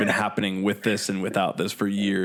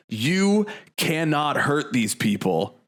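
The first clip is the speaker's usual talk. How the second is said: slow, raised-pitch declaration to a crowd; stage proclamation; 6 semitones higher, much slower than usual. Retold or imitated. Hardcore band addressing the audience, slow proclamation.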